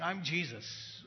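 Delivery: a tall, stern Lord calling him out; stern firm Jesus. Retold or imitated. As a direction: confront him straight, no softness. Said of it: "very straightforward".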